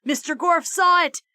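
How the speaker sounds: ordinary delivery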